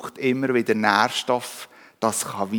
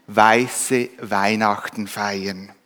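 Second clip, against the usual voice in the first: slow, dreamy, gently enthused; rapturous gushing; 3 semitones lower, much slower than usual. Acted. Polar bear dreaming of a white Christmas, slow rapturous gushing. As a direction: savour each word like a lovely wish. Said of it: "er schwärmte verzückt".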